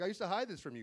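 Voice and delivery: his own side, pitch arched on "hide"; retold own line. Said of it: "I'm like".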